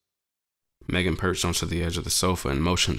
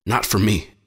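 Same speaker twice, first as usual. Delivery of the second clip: bitten out; 3 semitones higher, 4 dB louder than usual. Acted. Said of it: "I bit out".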